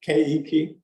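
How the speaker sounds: "Keiki" as KAY-ee-kee, rising at the end; Hawaiian pronunciation. Shown as a demonstration. Checking how to say it, "Keiki" as a rising KAY-ee-kee. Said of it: "how'd you say it?".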